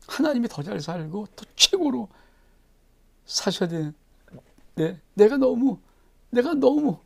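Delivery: a king uneasy, voice rising into a high whine; fretting David. Acted.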